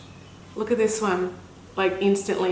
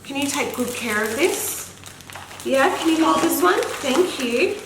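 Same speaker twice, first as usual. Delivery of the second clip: higher, coaxing mummy voice; 5 semitones higher than usual. Real, not acted. Asking her daughter to hold the box, coaxing. Mother talking to her toddler.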